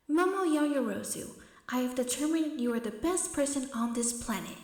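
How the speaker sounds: recorded confession playing over the noise; recorded May. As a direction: play it like a recording. May's recorded confession plays.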